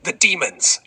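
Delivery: horror-movie screech; panicked scream. Acted. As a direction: scream it like you saw demons. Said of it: "at full volume".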